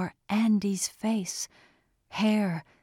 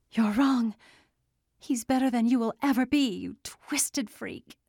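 higher, defiant woman's retort; 5 semitones higher than usual. A narrator's reading. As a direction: spit it back at him. Andy defying the creature.

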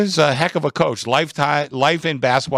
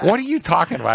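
higher-pitched mock bafflement; baffled wife; 5 semitones higher, faster than usual. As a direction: imitate a puzzled wife's question.

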